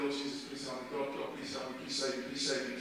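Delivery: imitated mumbled prayer. Preacher acts the passenger beside him praying, mumbling. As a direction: mumble it under your breath. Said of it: "was mumbling prayers".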